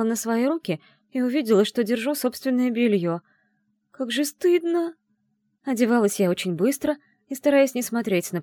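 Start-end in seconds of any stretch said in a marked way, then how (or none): 3.9-4.9 high, slow mortified exclamation; cringing with shame, voice up high; embarrassed cry. A narrator's reading. Heroine ashamed seeing her underwear in her hand, high mortified cry.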